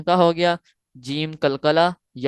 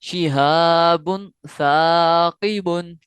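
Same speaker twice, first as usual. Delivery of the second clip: slow, slightly louder recitation; tajweed recitation; 3 dB louder, much slower than usual. Shown as a demonstration. Teacher introducing the next phrase, slow recitation. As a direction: announce and recite slowly. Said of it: "उसके बाद है".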